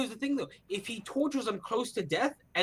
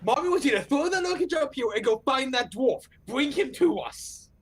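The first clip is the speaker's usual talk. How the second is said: raised calling voice, slowing on the last order; mock scream; 3 semitones higher than usual. Player in character calling orders to Sniffles, mock scream. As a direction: call out an order, only half screaming. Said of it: "I'm gonna scream to Sniffles".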